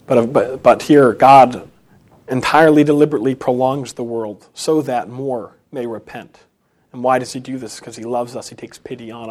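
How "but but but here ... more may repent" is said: forceful preaching. Real, not acted. Preacher builds to climax.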